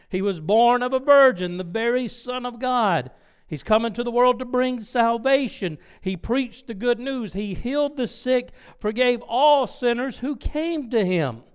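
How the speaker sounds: fervent proclamation. Acted. Preacher proclaims the good news.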